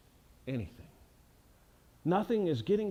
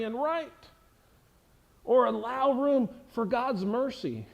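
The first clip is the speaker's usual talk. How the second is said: raised, driving preacher voice; preacher pressing the point home to the congregation; preaching; 7 semitones higher, 4 dB louder than usual. Acted. Pastor building intensity, preaching at full force.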